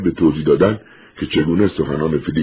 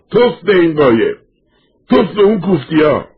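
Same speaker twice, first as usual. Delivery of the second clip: loud, much higher angry yell; wütendes Schreien; 14 semitones higher, 5 dB louder than usual. A narrator's reading. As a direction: curse it out at a high-pitched shout. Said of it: "و داد زد".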